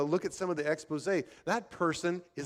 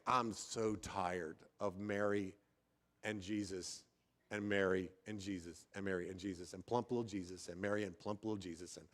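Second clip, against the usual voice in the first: weary exasperation; 6 semitones lower, 9 dB quieter than usual. Retold or imitated. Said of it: "I can't take anymore".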